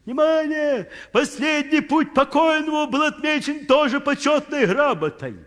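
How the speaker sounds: like a cemetery megaphone; an official announcing to the mourners; mock announcement.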